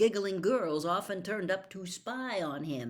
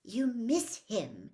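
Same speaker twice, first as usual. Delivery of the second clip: impatiently; 5 semitones higher, slower than usual. Acted. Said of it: "Hermione said impatiently".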